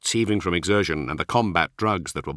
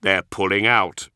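grim triumph; 4 dB louder than usual. Acted. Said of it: "a grim note of triumph in his voice".

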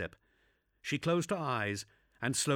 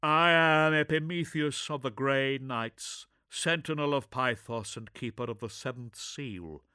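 gruff space marine; 5 semitones higher, 5 dB louder than usual. Acted. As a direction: proclaim title with gravity.

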